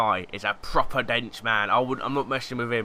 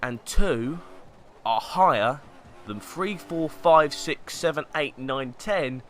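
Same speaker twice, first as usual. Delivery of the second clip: patronising counting; 2 semitones higher, 4 dB louder than usual. Acted. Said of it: "If you didn't get it".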